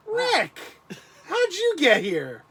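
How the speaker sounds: hammy impression of a friend; Rick impression. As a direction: drawl it out as Rick, big and loud. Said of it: "Is that your impersonation of Rick?".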